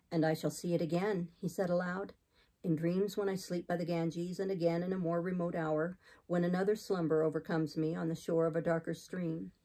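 lightly voiced grave man, low-set and even; hint of an austere clergyman; solemn missionary. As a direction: speak aloud as if bidding farewell. Voices Saint John.

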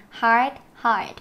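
"hard" with a pronounced r; clear r sound. Shown as a demonstration. Teacher showing students the r in "hard", demonstrative. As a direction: curl the r in "hard", said twice. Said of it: "mình có âm r".

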